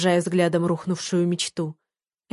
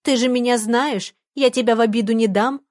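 squeaky mocking voice; 4 semitones higher than usual. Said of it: "Тонким писклявым голосом передразнила она парня".

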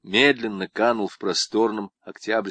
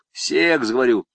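lightly voiced swaggering con, pitched up; boastful convict; 4 semitones higher, 5 dB louder than usual. Convict brags to Zamaraev about women, lightly voiced. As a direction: brag like a cocky camp inmate.

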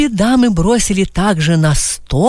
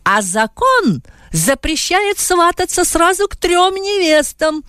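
higher, slow indignant retort; exclaiming brides; 10 semitones higher, slower than usual. A narrator's reading. The brides retorting to Adam together, higher and indignant. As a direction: fling the law back at him. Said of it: "воскликнули невесты хором".

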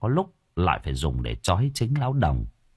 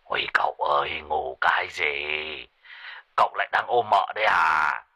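mock-frantic old man; urgent pleading; 3 semitones lower than usual. A narrator's reading. Sorcerer urging his sleepy master, frantic. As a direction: hurry him, it's serious. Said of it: "nói như quát".

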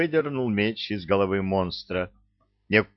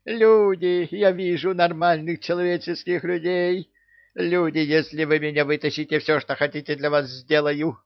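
rapturous pleading; 9 semitones higher than usual. A narrator's reading. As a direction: beg eagerly to be freed. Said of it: "упоенно воскликнул попугай".

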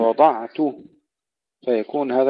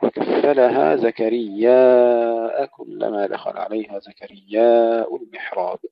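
Quran recitation; slower than usual. Acted. Verse recited in chant.

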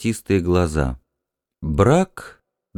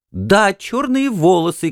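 higher, slow, eager cry; excited cry; 10 semitones higher, slower than usual. Acted. Wife excitedly confirms dream man's black hair. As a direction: burst out with excitement. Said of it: "крикнула она".

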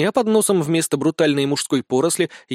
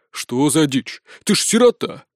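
indignant. A narrator's reading. Boy fairy objects to the orphan's oath, indignant. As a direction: call out the absurd lie. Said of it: "возмутился мальчик-волшебница".

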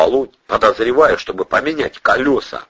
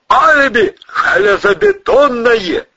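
triumphant shout; 6 dB louder than usual. Acted. Suspect triumphant alibi.

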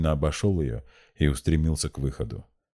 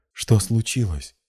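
slow, higher-pitched horrified question; 6 semitones higher, 3 dB louder, slower than usual. A narrator's reading. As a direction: ask it slowly, aghast. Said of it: "и в ужасе".

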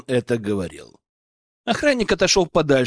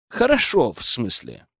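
ordinary delivery

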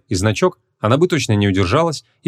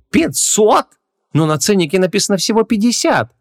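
high, outraged protest; furious; 11 semitones higher than usual. A narrator's reading. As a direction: protest the inflated price in disbelief. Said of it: "яростно завопил он".

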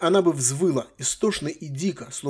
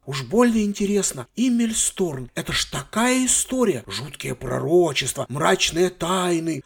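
put-on high, childish complaining voice; spoiled girl; 3 semitones higher, slower than usual. Granddaughter complaining to her grandfather, high and childish. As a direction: whine like a bored teenage girl. Sylvia explaining excitedly.

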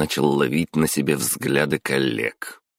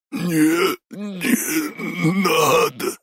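much higher, very slow, crying beg; terrified plea; much slower than usual. Acted. Boss begging the intern holding a knife, crying in terror. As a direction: beg for mercy, sobbing with fear. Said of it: "прошипел Самай".

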